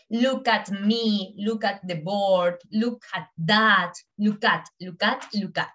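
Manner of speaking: "look at" said slowly as one word; slow teaching drill. Shown as a demonstration. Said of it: "Es como si fuese parte de la misma palabra". (repetición lenta de "look at" como una sola palabra)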